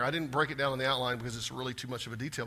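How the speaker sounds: ordinary talk, nothing marked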